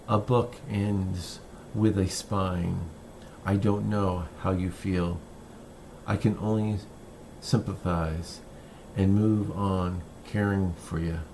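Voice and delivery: measured poetry reading, phrase by phrase with pauses; poem reading. Acted. Poet reads "Boyhood of a Dog" to listeners, measured recital. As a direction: read it as verse, unhurried, pausing at line breaks.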